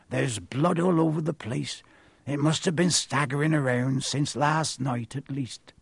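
lightly voiced rustic giant; grave groundskeeper. Groundskeeper showing pupils unicorn blood, grave. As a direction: explain gravely in a country accent.

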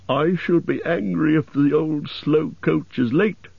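high-pitched impatient elf voice; high, put-on elf voice. A narrator's reading. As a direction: grumble high about a latecomer.

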